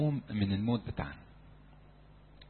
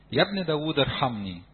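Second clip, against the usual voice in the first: raised cry of ارحمني; louder plea; 3 semitones higher, 5 dB louder than usual. Retold or imitated. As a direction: plead louder. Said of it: "فصرخ أكثر كثيرًا". (صرخة أعلى)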